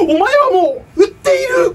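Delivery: high, strained catchphrase; Kenshiro catchphrase. Pretend. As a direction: deliver it like a finishing blow.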